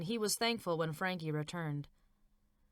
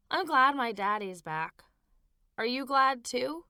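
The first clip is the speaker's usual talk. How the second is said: put-on happy child; 6 semitones higher, 5 dB louder than usual. Happy child asks mother.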